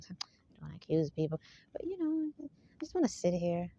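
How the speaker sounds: put-on reluctance, lightly mocking; mock manipulative complainer. Speaker mimics an accuser feigning reluctance, mock manipulative. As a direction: imitate someone innocently declining to accuse. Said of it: "talks like that. ... so irritating. ... Very manipulative".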